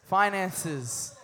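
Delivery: drawn-out call word; congregation echo. Shown as a demonstration. Preacher leads the church in saying the word, drawn out. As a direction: say it slowly for all to repeat. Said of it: "Everybody say finances".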